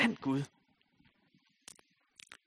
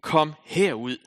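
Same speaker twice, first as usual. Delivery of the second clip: calling out with a raised voice; Jesus calling Lazarus from the grave, raised voice; loud call; 2 semitones higher, 7 dB louder, slower than usual. A narrator's reading. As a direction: call him out of the tomb. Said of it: "råbte han med høj røst".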